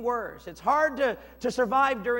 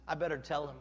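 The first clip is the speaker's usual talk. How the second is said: low, soft musing; decide it quietly to oneself; hushed, lowered voice; servant's private aside; 8 semitones lower, 7 dB quieter, faster than usual. Acted. Servant thinking to himself.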